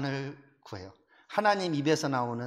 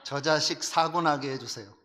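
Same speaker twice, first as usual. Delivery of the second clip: retold spiteful prayer; 3 dB louder than usual. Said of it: "그랬어요".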